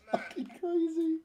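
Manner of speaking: high, slow, loud exclamation; euphoric. Real, not acted. Streamer losing it over the match, euphoric. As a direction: marvel at the madness.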